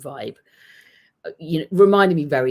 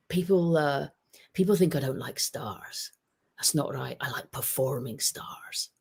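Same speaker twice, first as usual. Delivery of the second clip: lightly attempted Scottish accent, trailing off softer; terrible Scottish accent; 4 dB quieter than usual. Pundit quoting his old manager, lightly attempted Scottish accent. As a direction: have a rough go at a Scottish accent. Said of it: "That was a terrible Scottish accent".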